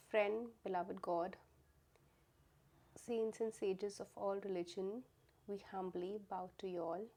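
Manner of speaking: measured prayer with pauses between invocations; humbly invoke the divine, phrase by phrase; reverent prayer. Real, not acted.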